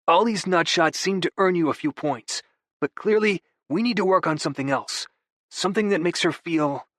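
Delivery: a hint of a sheepish brother; Vigo's voice. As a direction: play it off with easy charm. Vigo coaching Aiden.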